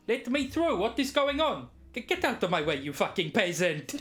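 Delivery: indignant shouting. Acted. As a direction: shove past, outraged. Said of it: "He's like, kick up a fuss".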